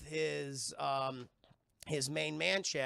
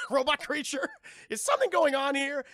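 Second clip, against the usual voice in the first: mock police officer; 9 semitones higher, 9 dB louder than usual. Officer approaching arguing pair, mock cop voice. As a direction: hail them as a puzzled cop.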